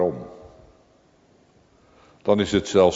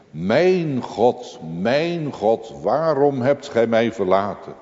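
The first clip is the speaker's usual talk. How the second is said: anguished cry; 5 semitones higher than usual. Retold or imitated. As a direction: cry it out across the darkness. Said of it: "Een schreeuw door de duisternis heen".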